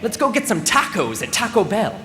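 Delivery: lightly voiced rowdy buddy, swooping pitch; a hint of a boisterous friend proposing a plan; rambunctious pal. Pal rounding up friends for tacos, rambunctious. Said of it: "One rambunctious pal declares".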